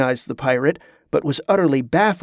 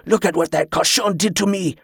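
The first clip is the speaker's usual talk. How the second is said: put-on higher-pitched, French-accented protest; indignant snap; 4 semitones higher than usual. A narrator's reading. Pirate shows his maimed hand to all, indignant. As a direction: protest the injury in outrage. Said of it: "the pirate snapped".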